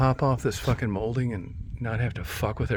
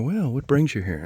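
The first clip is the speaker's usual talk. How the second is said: higher-pitched, lightly imitated doctor's greeting; lightly voiced doctor; 5 semitones higher than usual. Doctor greeting a returning patient, lightly imitated. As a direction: play a doctor opening the visit, raised pitch. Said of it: "I'm gonna go in there".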